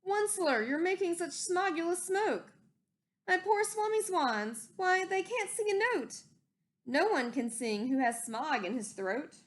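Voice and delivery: a hint of a croaky, upset Lorax; croaking Lorax. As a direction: complain high about the smog. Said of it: "he cried with a crofulous croak".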